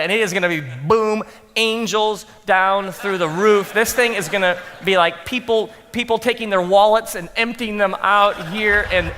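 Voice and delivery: hammed-up self hype; mock pep talk. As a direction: pump yourself up, overselling it. Self hype before sermon.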